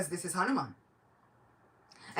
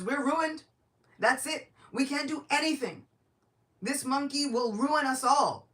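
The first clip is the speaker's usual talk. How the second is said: high, loud wail of doom; panicked minister; 9 semitones higher, 7 dB louder than usual. Acted. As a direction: cry out that all is lost. Chief minister panics before Ravana.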